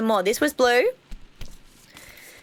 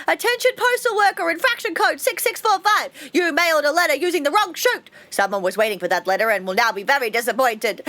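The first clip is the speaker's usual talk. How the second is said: much higher, brisk official system alert; higher announcer voice; 5 semitones higher than usual. Acted. System scolding the postal worker, announcer voice. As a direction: announce the infraction like a robotic PA.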